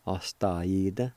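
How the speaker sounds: Ostaída said slowly, ending on a rise; careful pronunciation. Shown as a demonstration. Teacher repeating the word for students, slow and clear. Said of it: "It's pronounced like this".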